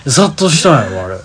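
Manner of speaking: loud laughter through the words; laughing insistence. Real, not acted. Laughing and insisting to the friend it got swamped. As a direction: insist on the joke while cracking up.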